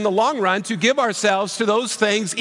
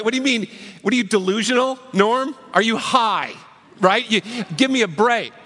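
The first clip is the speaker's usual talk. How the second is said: higher, incredulous imitation of a fed-up parent; mock exasperated parent; 3 semitones higher than usual. Pastor voicing an annoyed parent in the pews, mildly incredulous. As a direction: lightly play the scoffing parent. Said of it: "I can hear the parents almost seething".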